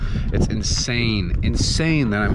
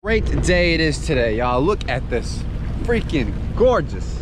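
excited; 7 semitones higher than usual. Real, not acted. Sailor greeting viewers at a gorgeous harbor, high and excited. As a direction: burst out with joy at the day.

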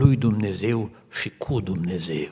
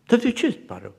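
puzzled question; 12 semitones higher, 3 dB louder, faster than usual. Retold or imitated. Nurse asking why she regrets.

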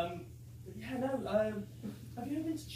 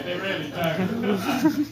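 much slower and louder, every word leaned on; emphatic; 10 dB louder, much slower than usual. Real, not acted. Carer insisting to Mike that nobody refuses Scouse, slow and emphatic. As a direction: drag it out to drive the point home.

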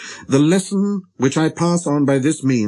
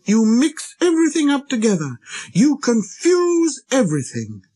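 put-on very high, angry child-prince voice; little prince, relentless. A narrator's reading. Little prince scolding the pilot for confusion, angry. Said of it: "he went on relentlessly".

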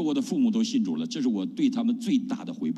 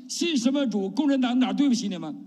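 put-on higher, scornful old party man; father scoffing at his son's new faith, indignant; 11 semitones higher than usual. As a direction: throw it back at them like an offended father. Quoting communist father's retort.

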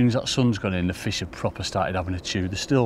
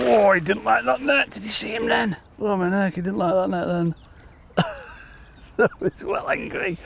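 excited; 11 semitones higher than usual. Real, not acted. Angler landing a thrashing carp, excited. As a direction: let the excitement lift the voice as the fish thrashes. Fish fighting the landing net.

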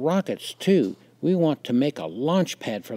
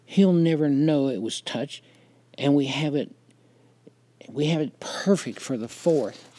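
put-on higher-pitched, wheedling boy; eager persuasion in a raised voice; coaxing; 6 semitones higher, 5 dB louder than usual. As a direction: coax him lightly, pitched up and pushy. Big boys coax the narrator.

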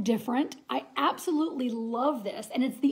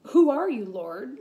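startled question; 5 dB louder than usual. Retold or imitated. Saul's question to the voice retold.

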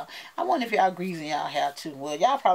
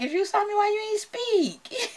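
laughing complaint; 14 semitones higher than usual. Retold or imitated. Vlogger laughing at fans who saw her but stayed silent. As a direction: tease them through a laugh. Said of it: "And I'm like".

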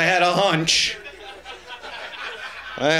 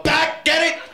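high squeaked hour back; squeaky punchline; 12 semitones higher than usual. Pretend.

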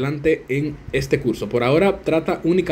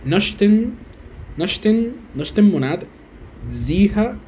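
higher, hesitant tries at nochten; unsure attempt; 4 semitones higher, much slower than usual. Shown as a demonstration. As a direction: feel your way through the phrase. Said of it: "la cuando te la tires es una como una O". (intento inseguro y más agudo)

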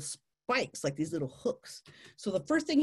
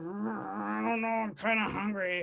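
undecided female tarantula; 3 dB quieter than usual. Acted. Female tarantula weighing up dancing male, mock pondering voice. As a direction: hum it out, unconvinced by the suitor. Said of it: "And she's like".

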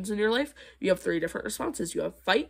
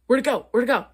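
higher-pitched imitation of puzzled commenters; mock bafflement; 4 semitones higher, 4 dB louder, faster than usual. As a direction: mimic someone searching, pitched up. Mimics baffled commenters finding comment deleted.

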